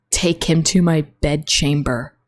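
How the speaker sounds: lightly voiced commanding queen, slow; Regina. Quoting Regina ordering the guards, slow mock command. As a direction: draw out the order deliberately, mildly imperious. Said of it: "and she goes".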